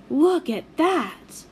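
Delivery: slow, amazed exclamation; boy stunned by the parasol attack; astonished. A narrator's reading. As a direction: point it out in disbelief.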